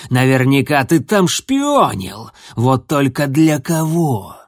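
corner him with each question; growled accusation. Acted. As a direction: warrior accusing a young cat of treachery, loud growl. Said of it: "прорычал".

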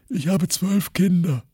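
lightly voiced grandfather, drawn out; old grandfather. A narrator's reading. Grandfather Sokratis speaking, slow old voice. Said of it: "sagte Großvater Sokratis".

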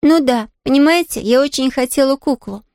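put-on a young girl brushing off the maid's worry; little girl Pollyanna. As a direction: play the eager little girl, light and quick to reassure. Pollyanna voiced.

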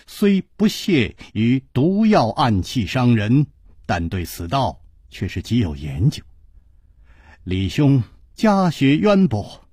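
measured, courteous elder-addressing tone; polite swordsman. Acted. 楚留香 courteously praising the poison-expert family.

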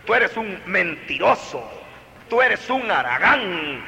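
accusing parent's scold; name-calling the child, rising at the end. Shown as a demonstration. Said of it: "no a decirle a los hijos".

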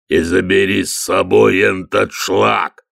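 slow, booming troll voice. Acted. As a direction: thunder it like a troll. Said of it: "загремел Детрит".

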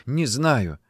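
mildly tearful denial; a touch of a whimper; sobbing. Acted. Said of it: "всхлипывала она".

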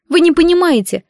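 high, tearful wail; dissolving into tears. Acted. Madina wailing to her mother and friends in tears. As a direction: break down crying as you protest. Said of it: "залилась слезами Мадина".

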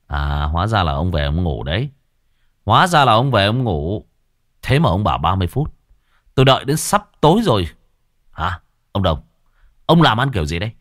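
a hint of an annoyed young man scolding. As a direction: scold him for the long wait. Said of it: "cậu mắng".

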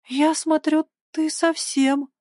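put-on high, teasing girl's voice; imply he's cracked, pitched well up; high mocking remark left hanging. A narrator's reading. Girl mocks boy as crazy.

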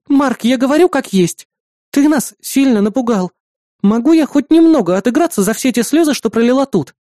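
Маруся, playful and reproachful; girl's voice. Acted. Маруся, a girl, voiced in dialogue. (звонкий девичий голос)

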